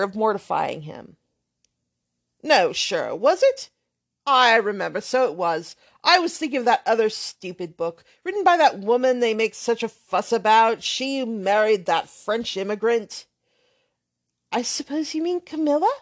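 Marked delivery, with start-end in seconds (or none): 2.4-13.2 put-on brash, offhand young man swearing lightly; lightly voiced loud young rake; blustering braggart. Thorpe backtracks loudly. 14.5-15.9 lightly voiced hesitant girl; timid young lady. Catherine suggests.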